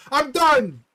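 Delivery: high, loud mock wail of a crying mom; imitating screaming mom. Streamer imitating a sobbing mom quitting the show, high mock wail. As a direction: shriek it like a mom in tears. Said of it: "she's screaming and she's like".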